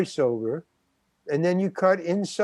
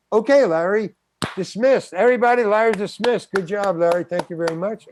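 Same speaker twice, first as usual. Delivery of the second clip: higher, louder announcement to the crew; brusque dismissal; 4 semitones higher, 4 dB louder than usual. Retold or imitated. Director dismissing Larry before everybody, brusque announcement. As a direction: imitate a director sending an actor off.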